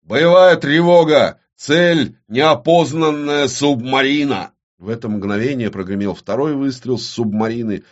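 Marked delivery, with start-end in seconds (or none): 0.0-4.5 громко, выше и медленно рявкает команду; отдаёт боевую команду во весь голос; рявкнул приказ. Acted. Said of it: "и рявкнул". (рявкнул, медленно и громко)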